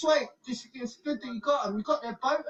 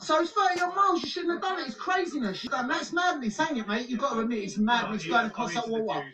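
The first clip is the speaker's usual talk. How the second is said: loud berating; 5 dB louder than usual. Real, not acted. Berating migrants on beach.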